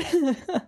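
short, high, pained laugh; laugh of eternal pain. Real, not acted. Streamer failing at a platformer, pained high laugh. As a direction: laugh through the misery. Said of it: "The, the laugh of eternal pain".

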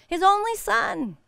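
"only" drawn out slow and high. Shown as a demonstration. Preacher repeating "only" slow and high to stir the church. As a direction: linger on "only". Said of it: "God gave his only son".

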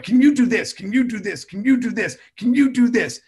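lightly voiced repeated kid pleas; clamoring kids. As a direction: pester like a crowd of children. Kids bombarding with requests.

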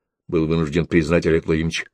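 ordinary delivery, nothing marked

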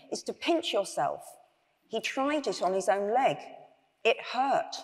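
measured read-aloud storytelling; story narration. A narrator's reading. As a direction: read the bedtime tale to an audience.

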